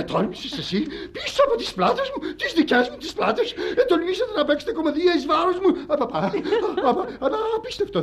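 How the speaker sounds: very high, hysterical comic rant; scandalised outrage. Acted. Betrayed husband accusing his employee, scandalised outrage. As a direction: sputter indignantly at top of range.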